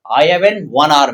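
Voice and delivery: slow, word by word dictation pace; slow model sentence for note taking. Shown as a demonstration. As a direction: spell it out slowly for the class. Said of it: "teacher models sentence slowly".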